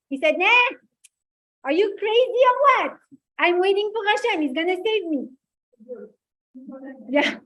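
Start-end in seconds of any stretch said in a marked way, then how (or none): 0.4-5.3 put-on Maurice Benguigui accent. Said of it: "the accent of Maurice Benguigui".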